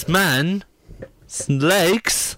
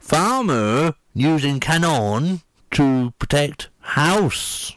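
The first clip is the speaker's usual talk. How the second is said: farmer voice; slower than usual. Acted. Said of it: "I'm gonna say it in the farmer's voice again".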